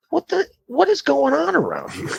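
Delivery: high-pitched, baffled outburst; high, incredulous complaint without shouting; exasperated. Retold or imitated. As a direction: demand an explanation in fed-up disbelief. Fed up with extra passengers.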